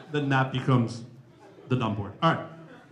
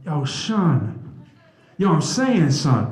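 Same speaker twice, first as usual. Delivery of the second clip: hip-hop industry friends; much slower than usual. Retold or imitated. Speaker imitating friends in the industry, street hip-hop talk. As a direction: play a rapper greeting his crew. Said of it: "my friends in the industry".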